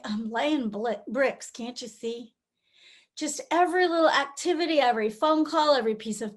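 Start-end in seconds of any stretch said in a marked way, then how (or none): 0.0-2.3 slow, worn-out mumble; weary sigh of a line. Acted. On hard days we just say it, slow and worn out. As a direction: say it like you're barely getting through the day. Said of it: "all we can do to just sort of say".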